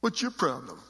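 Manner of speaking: put-on snotty punk kid complaining. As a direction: play a defensive teen who did nothing. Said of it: "I need to get somebody with a real good, uh, punk voice".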